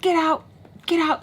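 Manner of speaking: high, forceful repeated command; retold insistent order. Tommy ordering mom out of the car, high and insistent.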